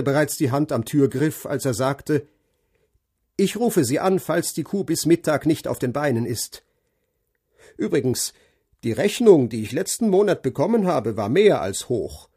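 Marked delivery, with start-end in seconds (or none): 3.4-12.3 blunt farmer complaining, higher and louder; curt, grumbling farmer about the bill; gruff farmer. Acted. Narrator voices farmer Brown. (knurriger Bauer, der sich über die Rechnung beschwert)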